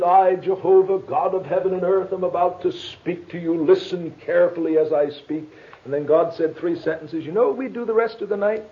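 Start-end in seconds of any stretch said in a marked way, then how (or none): 0.0-5.4 a touch of grand, declaimed pronouncement; lightly voiced God speaking out of thunder. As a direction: proclaim it evenly, with solemn authority. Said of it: "out of that thunder came a voice and said".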